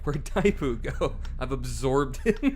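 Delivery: character voice. Pretend. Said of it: "This guy's like".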